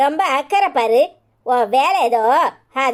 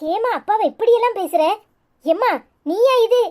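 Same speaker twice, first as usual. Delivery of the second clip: shocked disbelief; 6 semitones higher than usual. Acted. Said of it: "எனக்கே ஆச்சரியமா இருக்கு".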